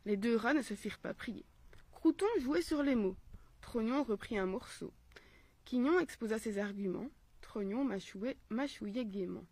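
measured, carefully paced storytelling; story narration. A narrator's reading. Mother reading a philosophical tale for children, storytelling voice. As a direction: read the fable aloud phrase by phrase.

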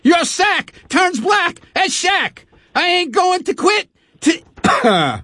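rough rhyming cop rant, some shouting; rap-style cop boast, half shouted; Sergeant Schliffshitz. Acted. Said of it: "demo for another character named Sergeant".

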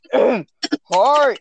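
mock Kermit greeting. Shown as a demonstration. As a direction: try a Kermit voice on a short hello. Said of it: "I can do kind of an impression of".

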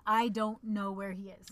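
slow, measured cover story; deliberate denial. Acted. Covering for a friend with the cops, deliberate denial. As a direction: spell it out slowly for the police.

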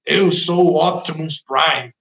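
lightly voiced Optimus Prime, a child playing; hint of a child's toy robot voice. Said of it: "até muda de voz".

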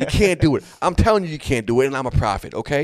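mock exasperated rant, high and loud; annoyed. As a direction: act out an irritated leader losing patience. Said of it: "you can hear him getting annoyed".

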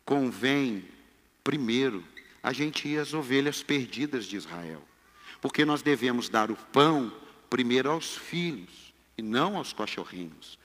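low, soft, measured speech; Jesus. Acted. Preacher playing Jesus answering his disciples, low and quiet. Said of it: "Jesus fala".

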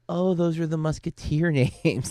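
recreated aha moment; dawning realization. Retold or imitated. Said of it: "I was like".

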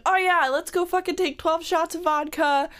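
giddy, reckless party voice; manic excitement. Retold or imitated. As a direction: hype yourself up, impulsive. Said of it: "I'm like".

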